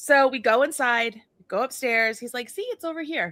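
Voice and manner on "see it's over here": play-acted very polite, careful tone. Retelling how a man led them upstairs, imitating his very polite tone. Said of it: "he's talking just like this, very polite, very don't poke the bear".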